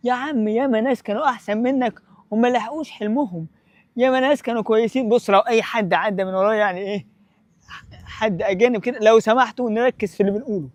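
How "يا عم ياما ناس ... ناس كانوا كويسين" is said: lightly voiced naysayer, dismissive; a hint of a gloomy friend talking you down; discouraging people. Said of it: "الناس المحبطين اللي بيقول لك". (تقليد خفيف لصوت شخص محبط)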